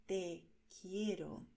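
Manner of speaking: "Te quiero" slow and sincere; loving declaration. Shown as a demonstration. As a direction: declare your love gently. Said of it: "para declarar tu amor". (declaración tierna de amor)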